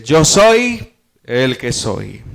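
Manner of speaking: low, very slow solemn divine voice; voice of God. Acted. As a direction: proclaim it slowly as God himself.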